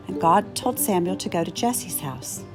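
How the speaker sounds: usual speaking voice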